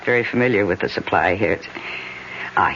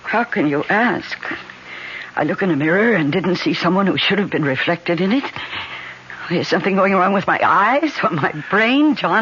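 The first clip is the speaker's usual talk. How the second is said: high, pleading fear; scared and begging to be believed; frightened; 5 semitones higher than usual. Acted. Minna pleads with John about the mirror, frightened.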